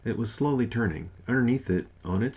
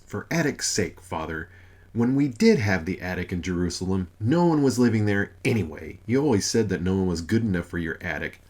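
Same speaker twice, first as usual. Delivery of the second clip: louder, scolding tone; crossly; 4 dB louder than usual. Acted. Mother stamping her foot at Father, scolding crossly. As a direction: scold him like an exasperated wife. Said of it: "said crossly".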